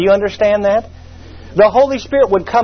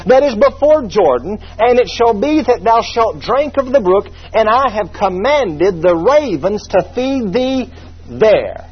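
scripture reading; 2 semitones higher than usual. Acted. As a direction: draw out the divine command.

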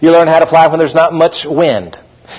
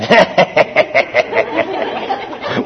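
sadistic laugh; 4 semitones lower, 6 dB quieter than usual. Retold or imitated. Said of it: "they're kind of sadistic".

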